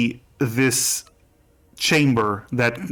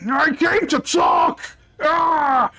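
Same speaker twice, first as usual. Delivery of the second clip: high panicked plea ending in a cry; high frightened captive pleading with his captors; desperate plea; 13 semitones higher, slower than usual. Acted. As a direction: beg to be heard, then cry out.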